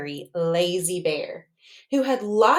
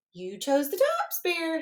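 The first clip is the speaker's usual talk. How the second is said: smug hare; 7 semitones higher than usual. Acted. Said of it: "Hare said".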